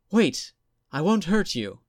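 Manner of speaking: high, loud call to stop him; urgent high shout. Acted. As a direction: call out to keep him from bolting. Ghost calls out to fleeing boy.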